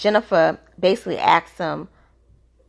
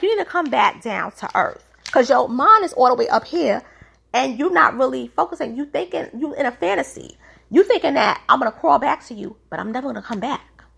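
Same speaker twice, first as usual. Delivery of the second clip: much higher, heated retelling of her rant; mock angry British; 3 semitones higher, faster than usual. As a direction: imitate her telling him off, pitched way up. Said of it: "And she was like".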